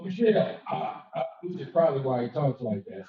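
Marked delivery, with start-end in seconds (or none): 0.0-1.2 Obama impression. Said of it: "he goes".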